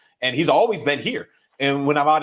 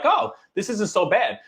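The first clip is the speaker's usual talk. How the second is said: mock dog voice; 8 semitones higher than usual. Voicing the dog's relief.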